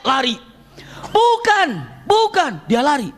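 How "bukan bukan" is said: urgent denial. Acted. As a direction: cut him off fast. Abbas denying in alarm.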